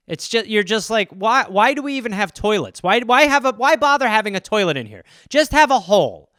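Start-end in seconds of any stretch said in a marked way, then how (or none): 1.1-6.3 loud exasperated rant. Retold or imitated. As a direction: vent it louder and louder. Exasperated rant about toilets.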